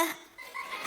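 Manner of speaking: sharp quiet gasp of shock. Retold or imitated. Counselor reacting to a mean insult with a gasp. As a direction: gasp as if scandalized.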